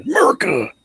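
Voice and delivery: high, loud patriotic cheer; excited shout. Real, not acted. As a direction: belt it out like a fan. Patriotic cheer after gold win.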